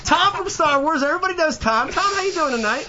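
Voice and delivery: high, bright game-show hype; excited intro. Acted. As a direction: hype up the guest. Hyped host introducing guest.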